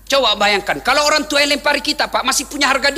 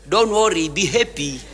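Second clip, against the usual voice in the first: mock cheerful; 6 semitones lower, slower than usual. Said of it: "Nabi tersenyum".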